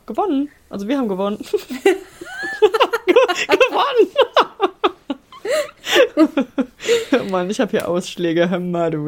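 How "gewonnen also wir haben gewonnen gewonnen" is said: excited. Real, not acted. Celebrating win with laughter.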